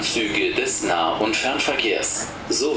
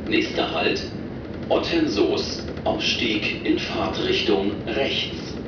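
over the intercom. Real, not acted. Recorded train stop announcements.

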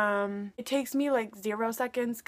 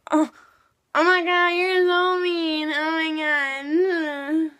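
mock crying; 6 semitones higher, 6 dB louder, slower than usual. Friend fake-crying at insult.

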